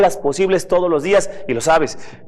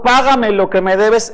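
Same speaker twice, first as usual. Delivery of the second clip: slow, higher, louder demand; demanding payment; 4 semitones higher, 4 dB louder, slower than usual. Retold or imitated. Preacher voicing a harsh creditor, slow stern demand. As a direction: lean on each word like a creditor. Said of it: "Cuando uno le dice a otro".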